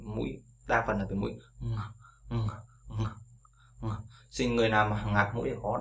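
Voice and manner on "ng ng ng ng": "ng" hummed through the nose; nasal ng drill. Shown as a demonstration. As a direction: keep "ng" in the nose. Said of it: "hơi phải ra từ mũi".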